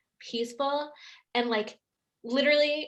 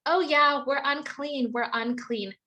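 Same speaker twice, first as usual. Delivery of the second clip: mock cheerful; 2 semitones higher, 4 dB louder than usual. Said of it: "the women probably say".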